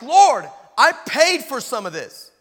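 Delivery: mock protest. Protesting to God in story.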